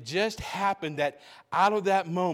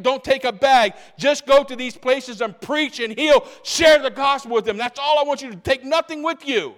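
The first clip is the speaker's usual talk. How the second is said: raised, emphatic commanding instructions; voicing Jesus; 4 semitones higher, 5 dB louder than usual. Jesus sending disciples out, emphatic commands. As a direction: lay down the rules firmly.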